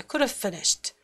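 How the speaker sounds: "could've" reduced and tucked into "finished"; contracted, same timing. Shown as a demonstration. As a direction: fit "could've finished" into the beat of "finished" alone. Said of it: "이렇게 비슷해". ("could've"를 축약해 "finished"와 비슷한 길이로)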